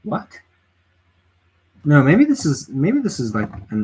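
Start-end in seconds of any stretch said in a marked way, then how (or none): 0.0-0.4 sharp high squeak of disbelief; a small stunned question; high, quiet startled what. Real, not acted. Streamer baffled by budget figures.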